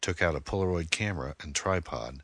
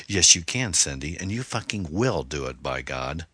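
enraged. Acted. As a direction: force it at her in rage. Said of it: "he stormed over".

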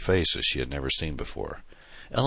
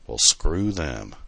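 slow, dismissive shrug of a line; shrugging; 4 dB louder, much slower than usual. Acted. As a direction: toss it off slowly, not caring. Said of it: "she said with a shrug".

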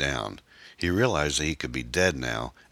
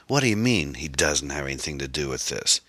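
incredulous villain's retort; scornful disbelief. Acted. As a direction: throw the words back with mild scorn. Kyle throws her words back.

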